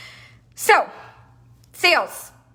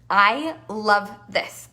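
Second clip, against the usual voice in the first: slow savoring; 3 semitones lower, much slower than usual. Real, not acted.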